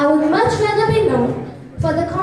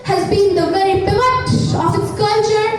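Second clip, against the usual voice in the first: formal speech. Acted. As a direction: declaim it like a stage orator. Declaimed ambassador speech.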